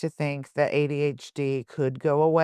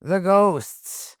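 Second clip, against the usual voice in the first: lightly voiced menacing killer; a hint of menace, drawn-out opening; 3 semitones higher, 3 dB louder, slower than usual. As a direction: deliver an ominous warning, louder at the start. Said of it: "That's a pretty good impression".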